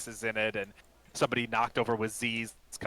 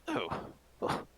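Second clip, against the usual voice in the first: gasping fright, then a much higher, slow squeak; startled old elf; 10 semitones higher, slower than usual. Acted. Startled apothecary gasps at the bird-like stranger, voice jumping much higher. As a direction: jump out of your skin and squeak at the bird. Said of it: "gets startled again".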